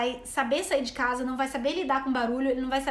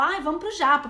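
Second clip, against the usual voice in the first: eager and louder, like a celebration; excited; 4 dB louder than usual. Retold or imitated. São Paulo friends inviting everyone, thrilled and louder. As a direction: cheer for going out for sushi. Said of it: "parece que é uma celebração ir pro japa".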